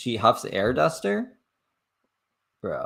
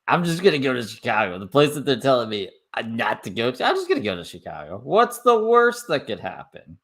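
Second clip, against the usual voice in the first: higher-pitched mock nonchalance; mocking imitation; 4 semitones higher, 3 dB louder than usual. Streamer mimicking the woman's plan to go to Chicago, mocking. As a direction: parrot her plan in a high, silly voice.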